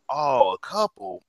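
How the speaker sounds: slow, drawn-out mocking "Oh, a couple"; dry, dismissive retort to a friend's claim; sarcastic scoff. Real, not acted. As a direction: stretch it out like you can't believe it.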